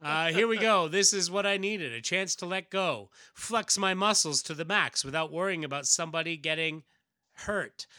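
eager hero charging up; pumped-up hero. Acted. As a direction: let loose, eager for the fight. Hero psyches himself up.

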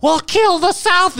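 high, slow, fierce anchor voice; North Korean newsreader. Retold or imitated. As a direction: belt it like a state news anchor. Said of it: "and she's all crazy".

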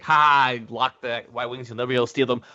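lightly mocking villain's gloat; mocking taunt. Titus taunting Ezra over the locked ships, mocking. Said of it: "mocks him".

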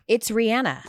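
a singer's name with a flat "an" as in Anna; corrected pronunciation. Shown as a demonstration. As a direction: say the singer's name as Ree-ANN-uh. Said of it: "names that we say wrong".

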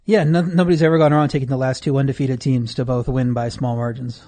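sarcastic. Real, not acted. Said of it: "Are you being sarcastic?".

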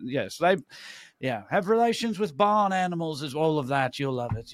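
lightly put-on English snob; mock English condescension. Imagined English local recommending Scotland to Southerners, mock English condescension. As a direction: imitate a politely insulting English local. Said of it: "that's how I interpreted that".

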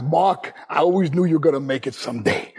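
imitating a Brooklyn father; Brooklyn dad accent. Father hears son's big news, imitated Brooklyn accent. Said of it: "talks like this".

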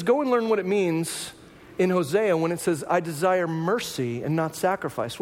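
slow solemn quote. Retold or imitated. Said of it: "He says".

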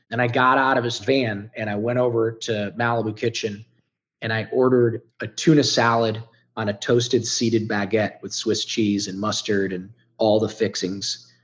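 usual speaking voice

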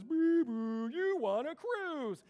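high, loud, slow mock scam caller; phone scammer offering a cruise, hammed-up high voice. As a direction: ham up the robocall pitch. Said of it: "that phone call that says".

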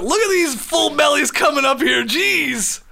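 a loose try at a goofy cartoon dad, admits he can't do the accent; Peter Griffin. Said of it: "But in a Peter Griffin voice".

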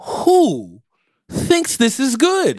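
slow, drawn-out shocked gasp of pain. Retold or imitated. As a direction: recoil like the bite just burned you. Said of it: "I was like".

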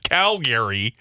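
"Calgary" as "Cal-GARY"; "Calgary" ending like the name Gary; taught pronunciation. Shown as a demonstration. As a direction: say "Calgary" with a full "gair" middle. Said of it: "the way you've told me to say it".

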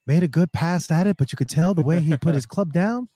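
golf commentator. Pretend. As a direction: call the swing like TV golf. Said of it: "I should do my golf voice".

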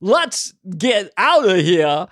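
slow, halting Walken-style delivery; a mild Walken voice in a cramped spaceship; Walken impression. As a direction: stretch each word with odd pauses. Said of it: "he would always say".

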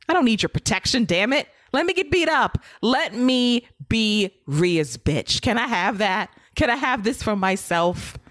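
mock plea, slowing for emphasis; pleading Dominic. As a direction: beg to be left to it, hammed up a little. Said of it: "He wants to be punished".

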